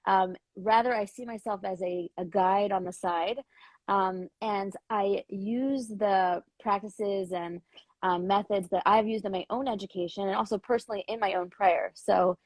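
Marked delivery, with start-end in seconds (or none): 3.9-12.4 groggy just-woke-up voice; morning voice. Real, not acted. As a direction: talk with a rough morning voice. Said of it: "I still got my morning voice".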